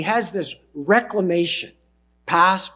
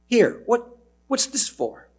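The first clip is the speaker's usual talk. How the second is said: surprised maid; 7 semitones higher than usual. Acted.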